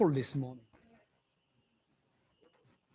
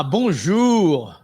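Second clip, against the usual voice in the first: public radio host; 7 dB louder than usual. Acted. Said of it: "you got your public radio voice on right now".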